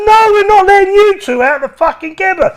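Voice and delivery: mock prison guard shouting orders; imitated guard yelling. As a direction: bark it like an angry guard. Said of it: "They said".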